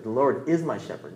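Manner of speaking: "is" stressed as present tense. Shown as a demonstration. Preacher contrasting present with past, stress on "is". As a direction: lean on "is" in the verse. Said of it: "you emphasize different words".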